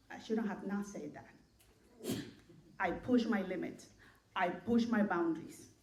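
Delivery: low, soft, subdued voice; little inner voice. Acted. Preacher voices the listener's conscience to the congregation, little voice, low and quiet. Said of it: "have you ever heard that little voice".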